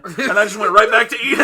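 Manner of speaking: laughing loudly through the line; can barely get it out for laughing. Real, not acted. Telling a friend the story, laughing loud and high.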